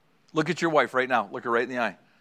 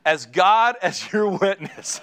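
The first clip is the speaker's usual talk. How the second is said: slow, louder, through laughter; laughing mock solemn; 4 semitones higher, 4 dB louder, slower than usual. Wife demanding an oath in a game, slow and laughing. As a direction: laugh while making it solemn.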